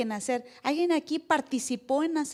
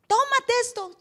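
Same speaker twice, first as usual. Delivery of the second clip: higher whispered offer; tempting friend; 10 semitones higher, 5 dB louder than usual. Retold or imitated. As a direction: slip the drink over secretly. (amigo que ofrece en susurro)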